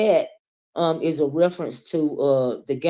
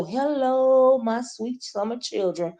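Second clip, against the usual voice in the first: doing the intro; 5 semitones higher, slower than usual. Shown as a demonstration. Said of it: "a great day for that intro".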